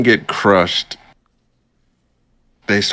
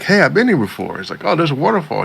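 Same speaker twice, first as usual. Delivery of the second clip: higher mock hero voice; lightly squeaky hero recognizing the place; character voice; 8 semitones higher, faster than usual.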